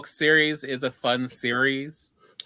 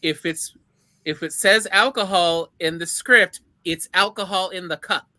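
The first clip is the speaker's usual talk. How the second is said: quoting Colbert; 3 semitones higher, 4 dB louder than usual. Retold or imitated.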